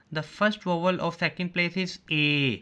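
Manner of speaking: very slow, every word set apart for students to copy; slow dictation. Shown as a demonstration. Teacher dictating a rule slowly to the class. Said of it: "Let's start।".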